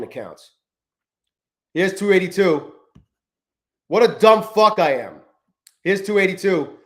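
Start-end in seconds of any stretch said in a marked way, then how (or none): 3.9-5.2 slow, louder self-scolding; self-directed anger. Real, not acted. Trader on stream cursing his own mistake, slow angry scold. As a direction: berate yourself for the blown trade. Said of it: "I'm so fucking pissed about that still".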